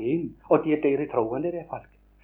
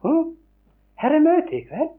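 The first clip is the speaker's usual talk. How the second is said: eager surprised question; 10 semitones higher than usual. Retold or imitated. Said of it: "sa hun".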